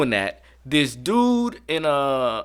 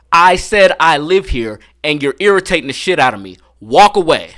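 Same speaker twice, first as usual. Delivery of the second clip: retold angry command; 5 dB louder than usual. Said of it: "I was like".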